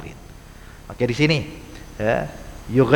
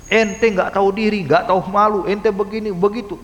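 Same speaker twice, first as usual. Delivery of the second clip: a hint of a harsh reprimand; scolding; 4 semitones higher than usual. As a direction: scold like a cross nagging elder. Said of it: "kemudian diomelin".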